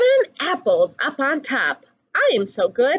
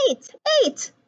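whisper; 11 semitones higher than usual. A narrator's reading. Whispered count in story.

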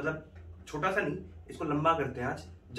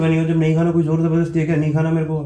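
mock anger; 3 semitones higher, 9 dB louder than usual. Faked anger in ignoring prank.

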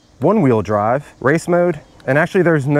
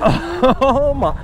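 high-pitched excited yelling; shouting out the speeds in thrill; yelling at a horse race; 11 semitones higher than usual. Real, not acted. Top speed test on scooter.

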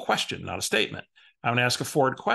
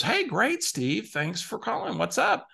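imitating client; 8 semitones higher than usual. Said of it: "And she goes".

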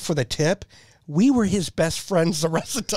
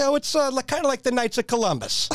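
grandmother voice; 9 semitones higher than usual. Retold or imitated. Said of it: "He's like".

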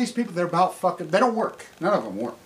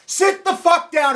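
shouted order; 7 semitones higher than usual. Real, not acted. Repeating it to critics, now shouted. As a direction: bark the word sit. Angry rant at anti-nuclear critics.

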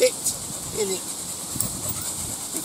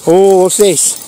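higher and louder commands to the dog; 6 semitones higher, 4 dB louder, slower than usual. Real, not acted. Owner training the dog to sit, higher and louder. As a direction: order the dog to come and sit.

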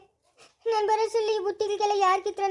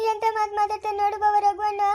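acted sobbing complaint; crying complaint. Girl complains tearfully to her brother-in-law about Raghu, crying. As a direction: whimper it out between sobs.

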